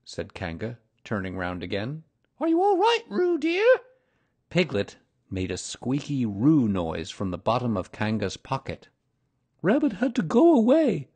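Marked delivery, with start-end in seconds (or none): 2.4-3.6 very high mother kangaroo, louder; high-pitched motherly question; Kanga's voice. A narrator's reading. Kanga checks on her child. 9.6-11.1 high, loud bear character; high-pitched character voice, louder; Pooh's voice. A narrator's reading. Pooh voiced in the story.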